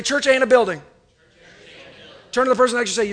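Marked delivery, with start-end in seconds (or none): 0.0-0.8 louder, higher call-and-response line; congregation call-out. Shown as a demonstration. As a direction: say it out for them to repeat.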